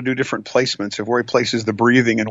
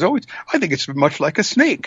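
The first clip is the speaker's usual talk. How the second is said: slightly raised, musing storybook voice; lightly voiced blind man; 4 semitones higher than usual. First blind man describing the elephant, lightly acted higher voice.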